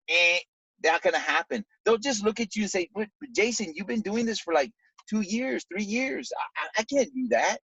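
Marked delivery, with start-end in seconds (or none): 2.9-7.6 defeated prospect. Retold or imitated. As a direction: mimic a discouraged friend who gives up before trying. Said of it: "come in with a defeated attitude".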